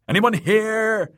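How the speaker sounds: loud, high searching shout; high, carrying call. A narrator's reading. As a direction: holler for anyone hiding. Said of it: "called Nimble Dick".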